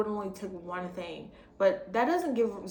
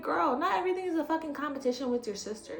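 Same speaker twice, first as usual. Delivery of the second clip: higher, sassy telling-off; exasperated scolding; 6 semitones higher than usual. Retold or imitated. Telling Ashley off over her sister, sassy scolding. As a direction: scold her like a fed-up friend.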